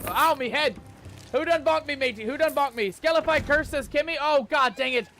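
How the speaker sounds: high, loud hammed-up pirate captain, furious at the crew; outraged pirate yelp. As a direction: bellow like a cursed pirate who just got bonked. His pirate wakes up cursed.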